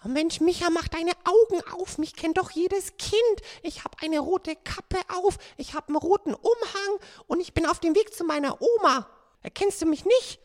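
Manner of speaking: ängstliches kleines Mädchen; Rotkäppchen voice. Acted. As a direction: spiel ein aufgeregtes Mädchen. Sprecherin spielt Rotkäppchen. (verängstigtes Rotkäppchen)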